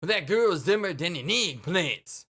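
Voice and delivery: sing-song mobster swagger; dismissive gangster. Acted. Gangster scorns the girl, dismissive mobster voice. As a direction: wave it off like a cartoon mobster.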